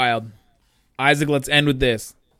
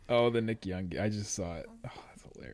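breathy whisper, suppressed laugh; 6 semitones lower, 13 dB quieter than usual. Real, not acted. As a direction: whisper to yourself, amused. Whispers while reading gif.

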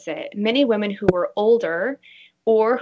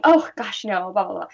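mock brush-off of a compliment. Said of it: "instead of saying".

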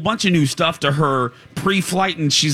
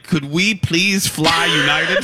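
put-on baby voice; 3 semitones higher, slower than usual. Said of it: "the baby's like".

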